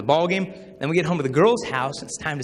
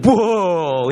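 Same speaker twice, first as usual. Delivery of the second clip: imitated whoa; 2 semitones higher, 6 dB louder than usual. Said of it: "Luke will be like".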